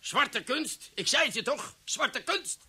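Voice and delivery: I told you so, half thrilled half spooked; excited outburst. Acted. Senior officer crying out that it's black magic, excited. Triumphant alarm at the news.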